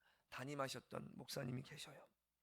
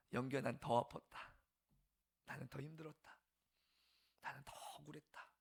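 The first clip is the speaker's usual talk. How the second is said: voice of the Lord. Retold or imitated. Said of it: "그런 음성을 제게 딱 들려주시면".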